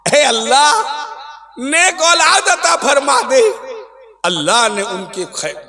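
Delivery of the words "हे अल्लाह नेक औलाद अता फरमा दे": imitating a fervent prayer in a raised voice; yearning plea. Preacher voicing Zakariya's prayer for offspring, yearning plea. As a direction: call out to God, acting the supplicant. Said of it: "तड़प के साथ खुदा से दुआ मांगी".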